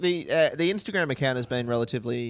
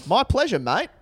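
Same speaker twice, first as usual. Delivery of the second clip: lightly voiced Kylie; 7 semitones higher, 5 dB louder than usual. Reading Kylie's reply.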